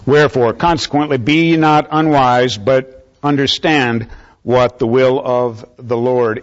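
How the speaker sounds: declamatory Bible reading; scripture reading. Real, not acted. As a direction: proclaim the verse to the congregation phrase by phrase. Reads scripture aloud to congregation.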